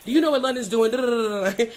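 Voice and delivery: high, loud mock ex-husband on the phone; imitating ex-husband. Ex-husband voiced calling her.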